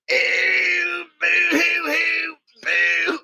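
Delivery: high, loud fake sobbing in an impression; mock boo-hoo crying. Streamer redoing a muted impression, fake boo-hoo wail. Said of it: "I did a great impression".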